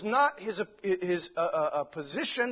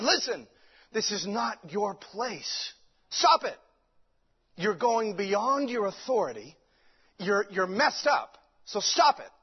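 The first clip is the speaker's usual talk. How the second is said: confronting priest; slower than usual. Retold or imitated. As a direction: order him to back off, slow and emphatic. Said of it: "the priest got in front of him and said".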